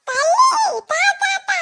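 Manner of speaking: put-on old man whining "தா, தா, தா" high and broken; stammering old man. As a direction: choke on the "தா" sounds.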